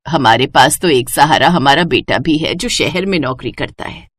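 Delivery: put-on tired old mother-in-law sighing over the ruined fields; mother-in-law sighing as she answers her daughter-in-law. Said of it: "आह भरते हुए कहा".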